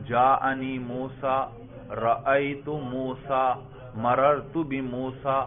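slow example phrases, موسیٰ ending in the same long "aa"; unchanged case ending. Shown as a demonstration. Teacher showing students the word never changes, slow demonstration. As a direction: recite slowly, keeping موسیٰ identical each time. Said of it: "تینوں میں اسی طرح ہے لفظ".

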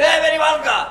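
loud, high gushing fan; excited fan. Acted. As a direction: hail your favorite comedian, imitating a fan. Fan recognizes him in shop.

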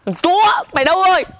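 ranting curses at whoever ruined his shirt; fuming neighbor cursing the unknown vandal; angry rant. Acted. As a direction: spit out insults one after another.

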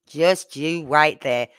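slow, stretched-out words; imitated mum-like warning. Gran showing how the granddaughter said it, slow mock warning. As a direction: repeat the child's scolding, drawn out slowly. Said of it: "The way she said it".

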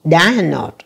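Diagnose, with the first syllable stressed. Shown as a demonstration. Teacher showing students the stress, first-syllable stress on Diagnose. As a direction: lean on the start of Diagnose. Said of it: "thì nhấn âm đầu".

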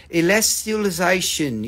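ELESTIALIZATION carefully enunciated in a mock smart accent. Shown as a demonstration. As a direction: put on a learned accent for "Elestialization". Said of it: "put on a smart accent for that one".

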